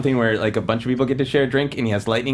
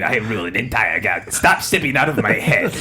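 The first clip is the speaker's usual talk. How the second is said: Palpatine voice; 2 semitones lower than usual. Retold or imitated. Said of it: "Like Palpatine".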